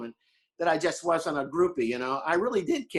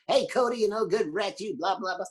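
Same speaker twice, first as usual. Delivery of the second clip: coach on the phone; 6 semitones higher than usual. Retold or imitated. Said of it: "he would call me at halftime".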